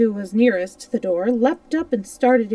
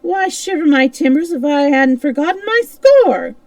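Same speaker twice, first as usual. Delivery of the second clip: higher, louder laughing cry; 6 semitones higher, 8 dB louder than usual. A narrator's reading. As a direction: burst into laughter. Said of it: "he laughed till the tears".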